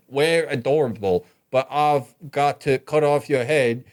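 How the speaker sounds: lightly imitated, wobbly Scottish accent; mock Scottish accent. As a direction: imitate her shaky attempt at a Scottish accent. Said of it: "in and out of her Scottish accent".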